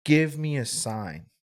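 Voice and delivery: retold prayer, drawn out and imploring; begging. Man retelling his prayer to God, begging. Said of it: "begging this man".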